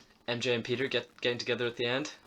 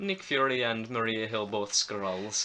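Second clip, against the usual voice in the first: put-on Russian accent; slower than usual. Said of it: "in a Russian accent".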